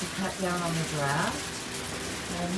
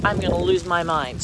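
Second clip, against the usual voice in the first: raised voice, half-joking frustration; loud exasperated; 6 dB louder than usual. Real, not acted. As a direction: call it out over the wind. Outdoors over storm, exasperated.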